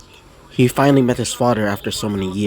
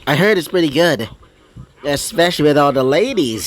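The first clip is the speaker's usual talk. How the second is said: higher, breezy, teasing buddy voice; cheeky demon pal; 4 semitones higher than usual. Acted. Pyro Jack coaxing Izuku to the roll place, higher and breezy. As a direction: talk him into going out for fun.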